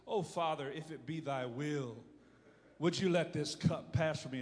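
a touch of a regal prayer, low and hushed; kingly. Retold or imitated. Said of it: "Matthew's rather kingly in his writing".

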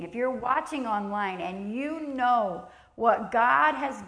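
slow, emphatic pulpit appeal; fervent sermon appeal; preaching. Acted. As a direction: press it on the congregation. Preaching at full force.

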